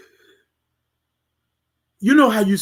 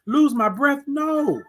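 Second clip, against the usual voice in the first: higher, challenging question; questioning refusal; 6 semitones higher, slower than usual. Acted. Refusing to lose breath in this life, challenging question. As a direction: throw it back as a question.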